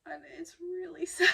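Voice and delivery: crying while laughing it off; real crying. Real, not acted. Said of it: "No, I'm not gonna be crying on camera".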